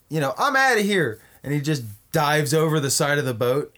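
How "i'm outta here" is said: higher, louder mock exit line; mock a rapper. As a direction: bail out dramatically. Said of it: "He's like".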